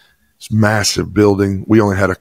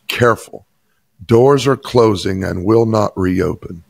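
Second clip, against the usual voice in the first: tram announcement voice. Retold or imitated. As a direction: lightly mimic the tram's recorded warning. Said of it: "the tram operator's voice said these words".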